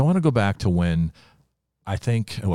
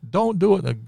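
mild mock alarm, higher and louder; lightly acted urgent plea, pitched up; retold alarmed plea; 12 semitones higher, 5 dB louder than usual. Young bus captain begs suicidal caller to stop, retold alarm.

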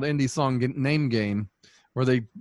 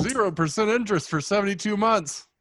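ad announcer voice; 8 semitones higher than usual. Retold or imitated. Mocking a TV ad.

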